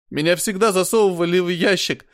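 high, loud anguished cry; shouting. A narrator's reading. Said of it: "снова переходя на крик".

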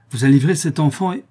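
urgent question cut short by emotion; overcome with emotion. A narrator's reading. Countess questioning the old woman about the child, overcome. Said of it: "L'émotion était trop violente".

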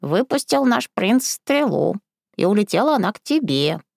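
lightly voiced old crone; explaining old woman. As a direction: explain it like a fairy tale. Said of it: "пояснила бабка".

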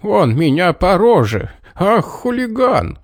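high, angry cry; angry shout. A narrator's reading. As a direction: yell after the fleeing boy. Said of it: "тоже кричал".

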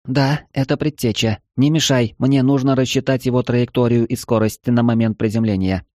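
put-on busy calculating AI girl; AI companion voice. Eva voice, narrator elsewhere.

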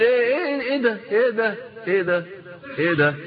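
high, baffled "what is this"; high-pitched confused outburst; baffled exclamation. Pretend. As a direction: react like someone utterly lost. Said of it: "تقول".

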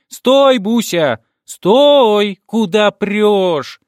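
loud, high squeal of alarm; desperate shriek. A narrator's reading. Girl shrieking at grandmother stepping into traffic, loud and high. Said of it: "Отчаянно взвизгнув".

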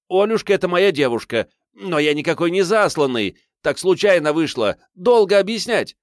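desperately calm a standoff by shouting; frantic pleading shout. A narrator's reading. Hero frantically begging both sides not to shoot, shouting.

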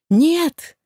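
high, loud shout of refusal; loud high cry pulling away from him. A narrator's reading. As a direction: scream it as you jump back. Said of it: "прокричала я".

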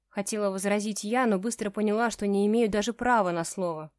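plain reading voice

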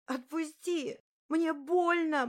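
high, loud tearful cry; sobbing plea. Acted. Sobbing girl begging the bully, high and loud. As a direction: beg through the sobs. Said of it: "ревела и орала в голос".

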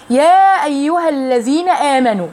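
slow recited phrase, vowels drawn out; slow Quranic demo; tajweed demo. Shown as a demonstration. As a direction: chant the words slowly. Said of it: "طيب هنا في".

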